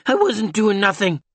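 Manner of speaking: a touch of a thin, frightened man; lightly voiced, thin and pleading; thin whispery voice. A narrator's reading. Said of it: "in a thin, whispery voice".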